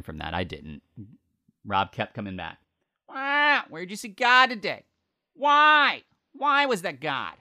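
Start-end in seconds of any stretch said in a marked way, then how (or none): 3.1-7.3 high, loud put-on Rob voice. Rob repeating his question to the staff, in the standard Rob voice. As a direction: push Rob's high questions again. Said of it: "the standard Rob voice".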